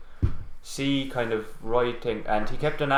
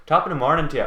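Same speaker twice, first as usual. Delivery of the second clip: mock Irish accent; 3 semitones higher, 4 dB louder, faster than usual. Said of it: "all that crap".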